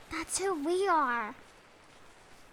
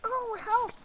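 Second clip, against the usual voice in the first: mock alarm; 9 semitones higher, 3 dB louder than usual.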